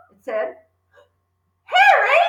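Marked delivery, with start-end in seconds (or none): 1.6-2.2 high, loud alarmed shriek; frightened cry. Acted. Mother frightened by a voice in the house, crying out. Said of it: "cried the mother".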